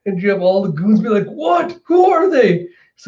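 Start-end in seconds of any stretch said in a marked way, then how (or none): 1.3-2.7 high, panicky henchman squawk; alarmed disbelief. Retold or imitated. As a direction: squawk in mock shock, getting louder. Goons alarmed at newcomers.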